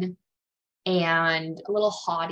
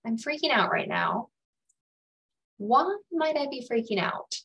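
curious; 5 semitones higher than usual. Shown as a demonstration. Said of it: "get curious and compassionate".

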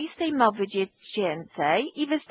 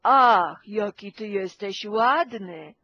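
scolding tone; 2 semitones lower than usual. Shown as a demonstration. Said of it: "A ja powiem".

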